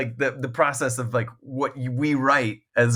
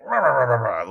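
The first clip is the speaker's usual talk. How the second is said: imitated grumbling rant in nonsense syllables; mock-pissed "rah rah" tirade; mock angry ranting; faster than usual. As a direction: grumble like an outraged author, half in jest. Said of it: "really pissed".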